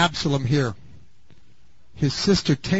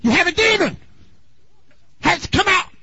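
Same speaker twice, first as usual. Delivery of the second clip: high, loud hammed-up preacher shout on "demon"; mock fiery preacher; 12 semitones higher, 3 dB louder than usual. Preacher mimicking a fiery preacher rebuking the congregation, hammed-up shout. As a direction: bark it like a hellfire preacher. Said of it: "the preacher who says".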